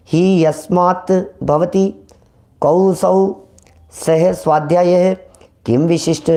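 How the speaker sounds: slow, word-by-word scriptural reading; careful recitation of the Sanskrit gloss; Sanskrit commentary reading. Shown as a demonstration. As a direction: read out the commentary phrase by phrase.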